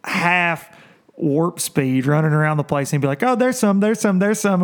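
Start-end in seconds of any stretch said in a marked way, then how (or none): 3.2-4.6 high, eager imitation of a friend spotting fish; excited spotting. Angler imitating his buddy spotting fish, excited and high. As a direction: call it out like you just found fish.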